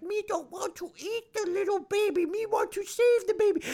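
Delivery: very high, put-on creature voice; Gollum-like goblin. Imagined goblin pleading to save the baby, high creature voice. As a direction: squeal it like a pitiful little Gollum. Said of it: "maybe he's like a golem".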